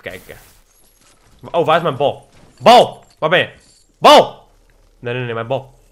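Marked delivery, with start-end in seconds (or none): 2.6-3.5 calling out. Real, not acted. Calling for lost ball. 4.0-4.5 calling out. Real, not acted. Calling for lost ball.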